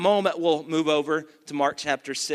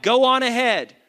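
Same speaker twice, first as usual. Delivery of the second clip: raised, punchy call for the crowd to echo; rallying call-out; 5 semitones higher, 4 dB louder than usual. Shown as a demonstration. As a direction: say it big so they shout it back. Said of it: "Somebody shout".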